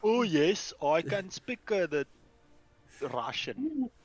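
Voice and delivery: high, loud, flustered boast; mock-confident claim to speak Russian that falls apart; nervous self imitation. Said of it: "as soon as I'm around someone".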